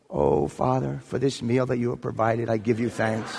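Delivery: lightly acted grace before a meal; mock prayer. Bear thanking the Father for its meal, mock prayer. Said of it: "in a gesture of prayer".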